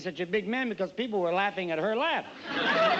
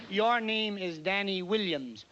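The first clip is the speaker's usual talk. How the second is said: put-on Italian barber accent. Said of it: "He said".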